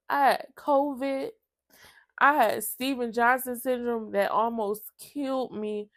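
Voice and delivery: fighting back tears as she recalls it; tearful. Real, not acted. Recalling her illness to viewers, real tearful voice. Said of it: "I said I was gonna do this video without crying".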